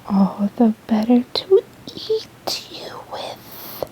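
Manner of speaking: a mild whispered cry from the wolf; slow, hammed-up pounce line, kept hushed; wolf cries out. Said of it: "cried the wolf".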